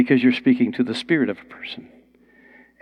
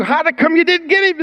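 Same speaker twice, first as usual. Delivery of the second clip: pitched way up in disbelief; incredulous demand. Retold or imitated. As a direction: fire the question at them, amazed. Pharisees question returning guards.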